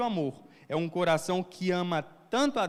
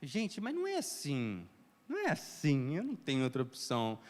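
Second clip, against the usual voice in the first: inner protest; 5 dB quieter than usual. Retold or imitated. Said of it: "eu fico dentro assim de mim".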